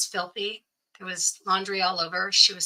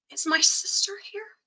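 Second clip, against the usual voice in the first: whisper; 12 semitones higher than usual. Retold or imitated. Blind sister answers, retold.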